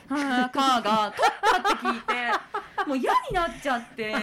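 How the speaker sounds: laughing. Real, not acted. Exasperated about the director.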